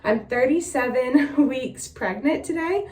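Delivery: breathless, catching air between words; out of breath. Real, not acted. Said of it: "so I'm a little out of breath".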